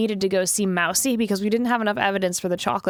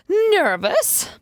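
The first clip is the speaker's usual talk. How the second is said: indignant protest, building higher and louder; flustered denial; 5 semitones higher, 3 dB louder than usual. Acted. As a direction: protest too much, ending higher. Character flustered, denies being nervous.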